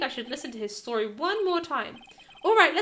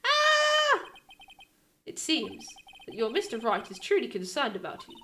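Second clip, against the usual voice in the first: menacing assassin; 4 semitones lower than usual. Acted. Assassin character speaks to Phoenix.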